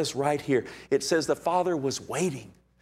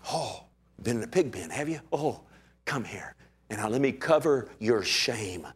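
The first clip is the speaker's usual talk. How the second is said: tender father; 2 semitones lower, 4 dB quieter than usual. Retold or imitated. Father gently receives his son.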